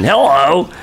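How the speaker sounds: put-on greeting with a rising end; Dave's hello speed. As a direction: imitate his big rising hello. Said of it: "he has, like, these two speeds".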